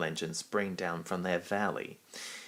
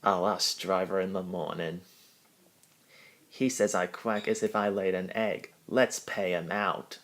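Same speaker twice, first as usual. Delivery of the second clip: sleepy. Acted. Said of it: "said to himself sleepily".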